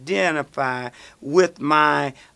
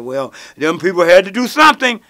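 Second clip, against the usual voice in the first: naive retort; 2 semitones higher, 8 dB louder than usual. Retold or imitated. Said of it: "I said".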